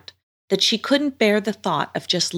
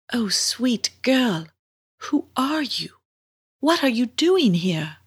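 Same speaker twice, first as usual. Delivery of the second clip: waking mermaid; 6 semitones higher, slower than usual. Acted. Mermaid wakes and questions the strange girl, high and dreamy. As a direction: speak high and slowly, as if just coming to.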